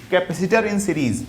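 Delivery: slow heading read aloud; slow dictation to a class. Shown as a demonstration. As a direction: say the title slowly for students to copy. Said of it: "discuss करते हैं in series".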